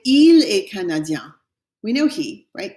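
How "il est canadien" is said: "il est canadien" slowly, louder, il stressed; teacher showing the short form; slow French model. Shown as a demonstration. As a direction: say it slowly with il first. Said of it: "You could say".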